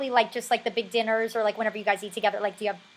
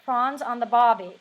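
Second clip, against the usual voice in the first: attempted Australian accent; 3 semitones lower, 4 dB louder than usual. Shown as a demonstration. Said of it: "can I say".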